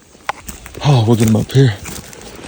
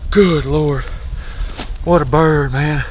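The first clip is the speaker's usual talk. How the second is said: excited; 4 semitones higher than usual. Real, not acted. Excited after killing turkey.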